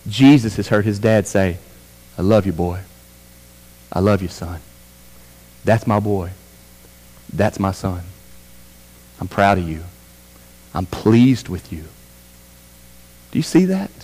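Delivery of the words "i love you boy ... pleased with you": low, soft fatherly words; affirming father. Acted. God the Father speaking well of his Son, tenderly affirming. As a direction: gently voice a proud dad, pausing between lines.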